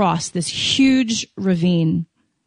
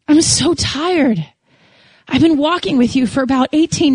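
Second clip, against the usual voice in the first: weary tearful plea; 5 semitones higher than usual. Retold or imitated. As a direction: pour out exhaustion to God, near tears. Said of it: "I was weeping in my bed".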